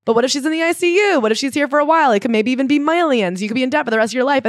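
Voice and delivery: high-pitched retold objection; worried warning. Retold warning about hospital costs.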